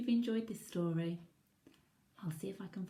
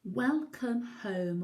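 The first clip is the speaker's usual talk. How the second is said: warm welcome; 3 semitones higher, 5 dB louder, much slower than usual. Acted. Bramwell welcoming friend.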